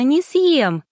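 laughing. A narrator's reading. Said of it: "посмеялась Геля".

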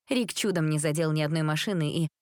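ordinary delivery

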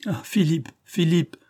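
high, falling cry of his name; emotional exclamation. A narrator's reading. Marthe greets Philippe as he takes her hand, high emotional cry. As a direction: let the name burst out high-pitched.

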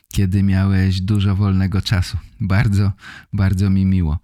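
ordinary talk

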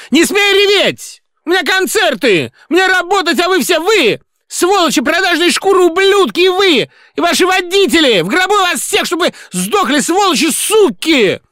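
high shrieking curses; hysterical rage. A narrator's reading. Singer screaming at the crying director, hysterical.

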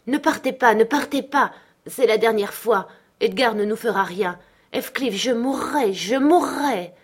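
high, loud, frantic pleading; desperate cry. A narrator's reading. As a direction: beg him to stay, crying out. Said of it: "cria-t-elle". (supplication criée, désespérée)

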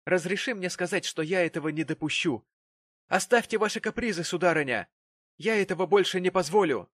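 angry father laying down the law; stern, threatening. A narrator's reading. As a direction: forbid it firmly, voice climbing. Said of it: "грозно качая головой".

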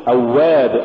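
أواب with a measured doubled w; moderately held w in أواب; balanced waw. Shown as a demonstration. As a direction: say أواب without dragging the glide. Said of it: "قل".

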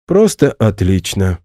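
slow, sarcastic outburst; exasperated exclamation. Acted. Natasha, upset he won't come to the dance, snaps sarcastically. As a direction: throw it out in bitter exasperation. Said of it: "опять воскликнула она".

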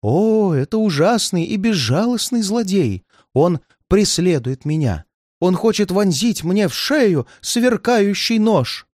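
high, dramatic voice of dread; agitated old man in terror; frightened paranoid old man. Acted. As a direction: describe the villain in mounting fear. Old man's terror of pursuer.

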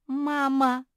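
high, loud, frightened squeak; piercing little-creature cry; squealing. A narrator's reading. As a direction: squeal out for mum. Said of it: "пропищала Жози".

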